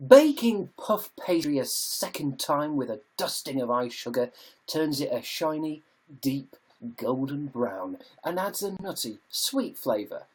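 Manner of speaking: deliberate audiobook-style narration. Shown as a demonstration. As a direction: read it out as a practised voiceover. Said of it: "I need to practice my audiobook voice".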